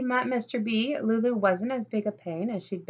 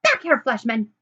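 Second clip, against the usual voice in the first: loud yelling; 8 dB louder than usual. Acted. Lulu yelling at Fleshman as he walks away, furious. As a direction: yell after him to come back. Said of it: "with Lulu loudly yelling".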